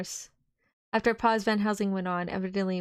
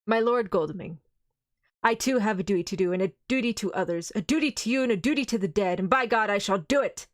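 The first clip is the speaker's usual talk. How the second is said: firm, louder stern resolve; grave and stern; 4 dB louder than usual. Acted. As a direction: answer him with grave authority. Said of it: "said gravely and sternly".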